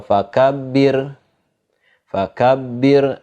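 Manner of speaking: fakabbir ending on a light r; thin ro. Shown as a demonstration. Teacher giving another example, thin ro in fakabbir. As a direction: slowly model fakabbir with a thin final r. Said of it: "dibaca tipis".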